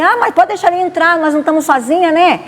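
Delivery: smooth it over, let him in; coaxing host. Retold or imitated.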